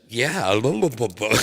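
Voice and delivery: put-on high, loud toddler babble. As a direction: squeal like a happy little girl. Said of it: "And she's like".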